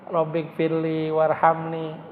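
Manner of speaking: slow, deeply felt recitation; unhurried, earnest prayer; slow heartfelt prayer. Shown as a demonstration. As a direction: savor each word as if near tears. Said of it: "sampai netes air mata?".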